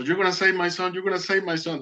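mom yelling. Retold or imitated. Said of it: "yelling to the doctor".

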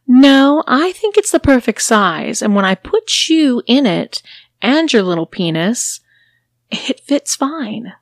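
loud flat refusal, ending slow; dismissive mistress. Acted. Mistress refuses a bigger cage, loud and dismissive. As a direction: shut the request down.

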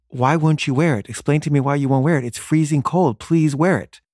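retold parental pleading, pitch climbing as it goes; exasperated pleading. Mother begs daughter to wear the jacket, exasperated pleading.

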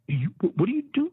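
sharp high what are you doing; baffled drill instructor. Retold or imitated. Drill instructor confronting a confused recruit, sharp and high. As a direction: snap it out, baffled and annoyed. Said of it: "He said".

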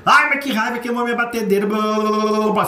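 high, petulant mock grumble; mock angry whine. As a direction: huff about the burnt mixer. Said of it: "pega pra reclamar uma coisa".

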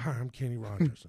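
a faint hint of a singer; impression of a singer. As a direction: say it again as the singer, barely shifted. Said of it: "'Cause that's what he sounded like".

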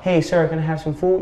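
politely asking, no push in the voice; humble request. Acted. Hungry man first asks a stranger for food, humble. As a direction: ask meekly, at an unforced level. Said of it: "You're gonna be humble".

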